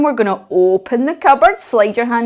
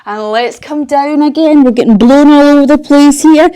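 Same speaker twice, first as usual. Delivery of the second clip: excited storytelling; 3 semitones higher, 7 dB louder than usual. Pretend. Pretend wind blowing children over.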